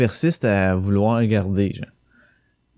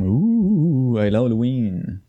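ghost voice; much slower than usual. Pretend. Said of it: "avec mon petit reverb, faire le fantôme".

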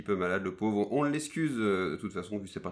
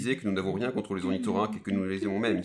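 reading the title card; 6 dB louder than usual. Acted. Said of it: "c'est moi le premier extrait, quoi, qui fait le lire".

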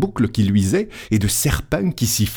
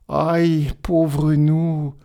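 much higher, slow wailing aïe aïe; wailing lament; 6 semitones higher, much slower than usual. Acted. Priest lamenting to the angel over his lost flock, a high drawn-out wail. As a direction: wail it out as the curé's world collapses.

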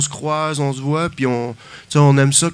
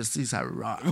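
deep devilish growl; Lucifer voice; 5 semitones lower, 10 dB quieter, slower than usual. Retold or imitated. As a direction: sound like the devil himself. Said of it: "Voix de Lucifer".

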